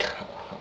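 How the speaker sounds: soft, dry fake laugh; voiceless, forced little ha-ha. Shown as a demonstration. Showing how Joker laughs, dry and soft. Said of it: "like, the dry".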